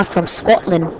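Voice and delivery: put-on slow, rolled Scottish accent on the name; Scottish accent, drawn out on Scotland. Commentator announcing a Scottish player, mock Scottish accent. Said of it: "That's a nice Scottish accent there".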